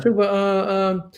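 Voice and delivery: mimicking an evasive crew member; nervous stammering. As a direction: hem and haw like someone hiding bad news. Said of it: "uh, stuttering around".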